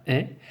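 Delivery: "est" as an open è; open-vowel "est", like è. Shown as a demonstration. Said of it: "c'est un E ouvert".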